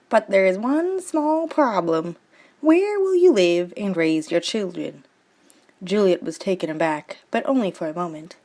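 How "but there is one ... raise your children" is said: Crabulet's voice. Acted. Crabulet warns Juliet.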